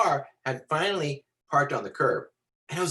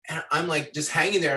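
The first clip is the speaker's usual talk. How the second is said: ordinary talk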